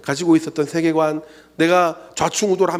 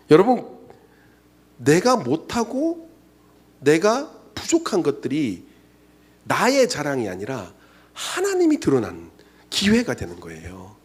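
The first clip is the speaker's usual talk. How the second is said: preaching; slower than usual. Acted.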